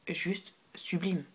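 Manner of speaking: slow, hushed whisper of admiration; awed whisper. Real, not acted. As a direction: whisper it slowly, savouring each word. Admiring the product, awestruck. (chuchotement admiratif, lent)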